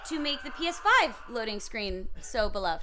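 sweet voice. Shown as a demonstration. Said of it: "could you say that one more time".

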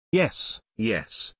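nervous, hurried yes; stammering. Acted. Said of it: "Mary stammered".

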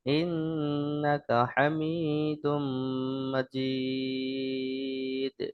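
level chant with drawn-out endings; measured recitation. Shown as a demonstration. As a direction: recite phrase by phrase, holding the final vowels. (টেনে টেনে সমান সুরে তিলাওয়াত)

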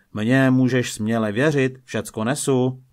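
mildly zealous protest; eager assurance. Acted. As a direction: Peter hurrying to reassure his master. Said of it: "horlil Petr".

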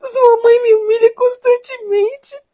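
hurt, crying complaint; tearful reproach. Acted. Wife to husband who never defends her, tearful reproach. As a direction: plead through tears at being left undefended.

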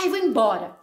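loud, fed-up huff; irritated. Acted. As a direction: announce it in annoyance. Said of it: "nervosa, irritada".

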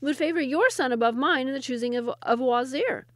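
emphatic, patronising explanation; indulgent, smiling. A narrator's reading. Second wazir favouring his own son, indulgently. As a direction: condescend with a smile in the voice. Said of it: "smiled the second wazir indulgently".

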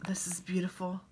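breathy awed whisper. Real, not acted. Whispering in awe over a friend's gift. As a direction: hush it, admiring the card. Admiring the letter contents.

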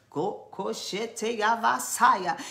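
slow drawn tongues; speaking in tongues. Real, not acted. Preacher praying in tongues over congregation. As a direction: stretch the tongues out slowly.

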